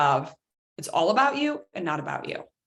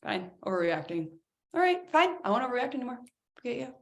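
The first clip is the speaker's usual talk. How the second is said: grudging, sulky muttering then a huff; sulking mock concession. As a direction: pout and give in resentfully. Sulky mock reply to calm down.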